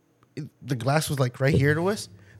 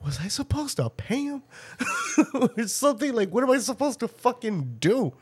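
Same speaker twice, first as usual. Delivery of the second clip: laughing confusion; 7 semitones higher, 3 dB quieter than usual. Retold or imitated. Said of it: "And I'm like".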